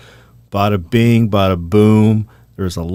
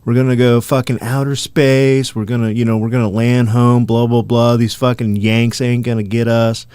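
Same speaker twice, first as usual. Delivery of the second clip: Nazi leader. Retold or imitated. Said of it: "you're leading the Third Reich".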